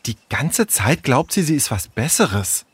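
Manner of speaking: understated sulky complaint; grumbling. Acted. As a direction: grumble it under a mild grudge. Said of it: "motzte Tessa". (leise motzend)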